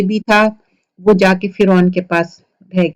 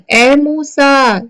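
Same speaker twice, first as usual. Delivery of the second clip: divine call; 5 semitones higher, much slower than usual. Acted. God calling Moses from the tree, slow solemn call. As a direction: call his name long across the distance.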